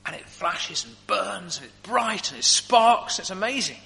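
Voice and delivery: lightly marvelling at the sparks; wonder-filled slow build. Real, not acted. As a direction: savour each bright word with wonder. Describing potassium burning in water.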